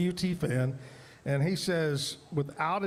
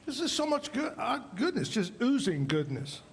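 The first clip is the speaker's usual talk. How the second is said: excited; 7 semitones higher than usual. Real, not acted. Raving about food while eating.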